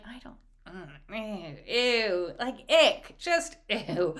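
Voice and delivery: reluctant, icked-out recoil; mildly grossed-out wife; acted disgust. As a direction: start hushed and slow, then let the ick out.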